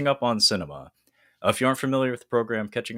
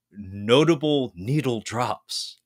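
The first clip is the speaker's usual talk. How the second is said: grand title announcement; 3 semitones higher, much slower than usual. Acted. Announces the new segment name.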